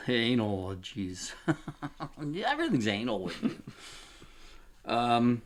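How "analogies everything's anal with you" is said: laughing through the words; giggling. Real, not acted. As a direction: giggle while you tease. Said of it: "you laugh. So stop laughing".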